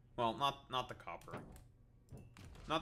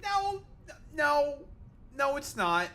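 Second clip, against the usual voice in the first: higher, louder, rapid no no no; mock shouted no; 8 dB louder, slower than usual. Streamer rejecting an imagined claim, mock shout. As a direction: shout down the claim, half joking.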